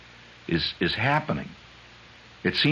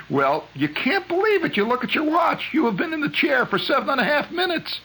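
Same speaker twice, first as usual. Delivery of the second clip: can barely get it out for laughing; laughing disbelief. Real, not acted. Cracking up over dentist story.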